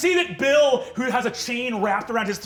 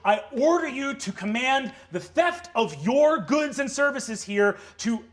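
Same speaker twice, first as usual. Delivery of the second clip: higher formal decree; devil official; 4 semitones higher than usual. Acted. Devil official ordering Fig, higher and formal. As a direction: read it like a stiff edict. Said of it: "she says".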